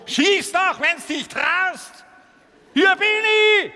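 high, loud tough-guy taunt; cocky little beetle. Acted. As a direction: squeak out a brave threat.

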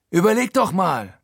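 hoch und lauter gerufen; ruft. Acted. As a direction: ruf es beschwörend heraus. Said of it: "ruft er". (Frankie ruft dem Erzähler beschwörend zu, hoch und laut)

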